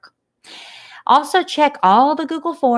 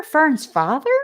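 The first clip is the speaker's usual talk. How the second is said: sobbing; 5 semitones higher than usual. Acted. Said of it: "sobbed Wilbur".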